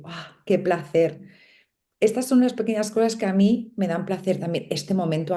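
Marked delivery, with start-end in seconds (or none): 0.0-1.2 slow, relishing sigh of pleasure; slow savouring sigh. Shown as a demonstration. Speaker showing listeners how she savours a pleasure, slow and relishing. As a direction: let the words melt like a taste on the tongue. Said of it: "saborearlo y decir".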